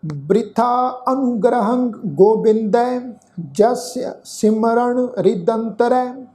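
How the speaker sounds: slow, measured Gurbani recitation; scripture recitation. Shown as a demonstration. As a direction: draw out each word of the verse. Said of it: "ਇਹਨੂੰ ਸੁਣੋ ਧਿਆਨ ਨਾਲ".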